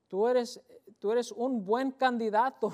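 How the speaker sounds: emphatic exclamation. Real, not acted. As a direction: proclaim it with joy. Preacher exclaims to congregation.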